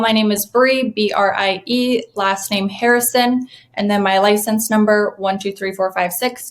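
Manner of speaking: slow and clear for note-taking; dictating. Pretend. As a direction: spell it out slowly. Spelling name and license number.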